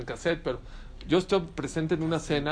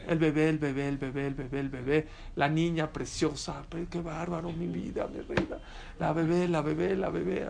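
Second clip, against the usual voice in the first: softer, lowered mock cooing; imitated doting parent; 3 dB quieter than usual. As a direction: gush over a baby under your breath, mimicking. Mimics parents doting on baby. (imitando a un padre embelesado)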